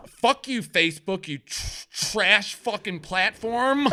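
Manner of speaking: mock-angry rant. Real, not acted. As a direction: spit it out at the platform. Cursing at Facebook.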